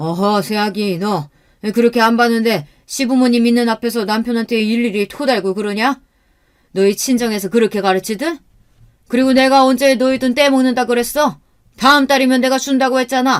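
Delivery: high, angry, heated voice. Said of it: "제게 언성을 높이시더군요".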